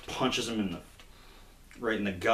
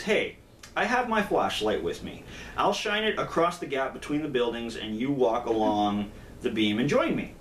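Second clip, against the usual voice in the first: eager suggestion; 2 semitones higher than usual. Acted. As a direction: sell a bright idea to a friend. First madman pitches his idea.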